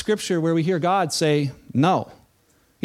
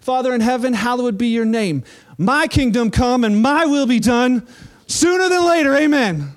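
a prayer that grows demanding, loud on sooner than later; hammed-up self-centred prayer rising to a loud demand; mock selfish prayer; 4 semitones higher, 4 dB louder than usual. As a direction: pray like a spoiled child wanting it now. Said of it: "Our prayers begin to sound like this".

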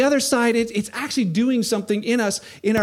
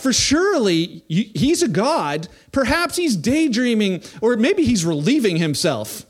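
light sarcastic taunt; mocking; 2 semitones higher, 3 dB louder than usual. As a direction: tease them as if their god is napping. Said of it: "Elijah began mocking them".

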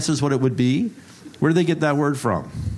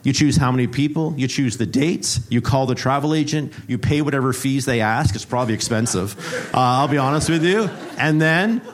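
game show host; 3 semitones higher than usual. Acted. Preacher plays game show host to the congregation, hyped announcer. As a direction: sell the prize like a cheesy TV host.

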